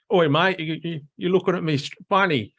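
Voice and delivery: high, quick mock Cockney pub challenge; a lightly hammed-up Cockney bloke picking a fight; Cockney accent. Describing a pub type to Americans, mock Cockney accent. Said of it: "sort of like your Cockney accent".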